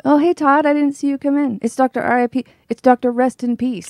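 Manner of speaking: a light Hefner-style smooth host voice; Hugh Hefner voice. Acted. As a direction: play a suave host, lightly. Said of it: "Were you doing Hugh Hefner just there?".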